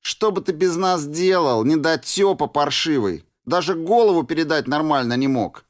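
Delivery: mock him, playful and cocky; teasing woman. Flyor teasing the hero.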